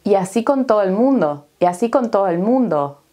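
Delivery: y así con todo el mundo fast, S and L dropped, as kont oo el mundo; fast dropped-consonant Spanish; clipped Caribbean speech. Shown as a demonstration. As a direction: rattle it off dropping the S and L. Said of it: "Estamos eliminando la S aquí".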